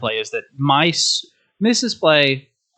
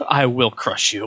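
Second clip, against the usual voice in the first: barbarian. Retold or imitated. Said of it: "there's the dark side".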